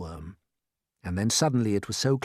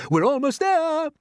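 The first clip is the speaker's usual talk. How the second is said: excited urging; 6 dB louder than usual. Acted. Grasshopper urging the crew.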